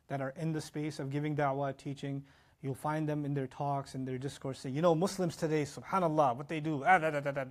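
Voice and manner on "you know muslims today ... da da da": complaining preacher. Retold or imitated. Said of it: "bashing Muslims".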